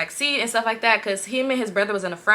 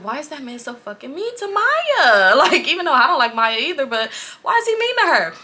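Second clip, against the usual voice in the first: exaggerated dismay, laughing; 5 semitones higher, 3 dB louder than usual. Teller voices her dismayed thoughts, laughing.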